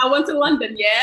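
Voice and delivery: badly faked London accent; mock British accent. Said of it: "when they try to do a British accent".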